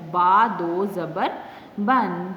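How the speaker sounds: letter, mark, then بن with a held n; measured teacher's spelling of با دو زبر بن; tanween reading demo. Shown as a demonstration. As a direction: spell it slowly, then land on بن. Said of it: "اس کو ہم کس طرح پڑھیں گے".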